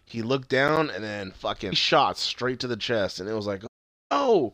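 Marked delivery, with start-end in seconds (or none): 4.1-4.5 high-pitched exclaimed gasp of dismay; mock-shocked outcry; retold shock. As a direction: react to a sudden cliffhanger shot. Reliving the shock of the shooting.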